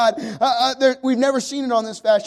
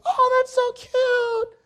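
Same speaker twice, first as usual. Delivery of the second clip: put-on very high, gushing girly squeal of a voice; slower than usual. House guest admires the decor, in a mock girly voice. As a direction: put on an exaggerated girly falsetto, drawn out. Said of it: "That was my girly voice".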